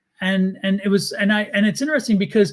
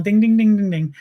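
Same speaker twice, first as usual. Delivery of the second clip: bell imitation; 3 dB louder than usual. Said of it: "the bell comes on".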